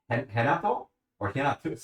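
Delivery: "Renato" opened with an H, like "Henato"; H pronunciation. Shown as a demonstration. Asking viewers which pronunciation is right, trying an H. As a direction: try "Renato" as "Henato", questioning. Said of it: "The H or the R?".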